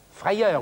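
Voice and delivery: frayeur said in French, rolled r; French word. Shown as a demonstration. Teacher says frayeur in French to the class. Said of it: "we say in French".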